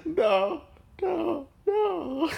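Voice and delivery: high, amused denial; laughing correction. Real, not acted. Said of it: "She didn't say anything".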